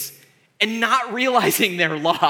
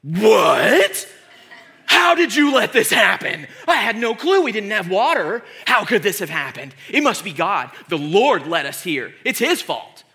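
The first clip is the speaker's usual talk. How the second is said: loud, exclaimed comic outrage; hammed-up indignant king shouting; Will Ferrell impression; 5 dB louder than usual. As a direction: bellow in mock disbelief and pass the blame. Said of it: "in his best Will Ferrell impression, is like".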